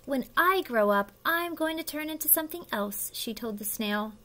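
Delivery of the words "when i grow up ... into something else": mildly boastful, higher-pitched announcement; a touch of proud showing off; bragging. Acted. Caterpillar tells the snail her big secret, bragging. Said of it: "She bragged about it to all her friends".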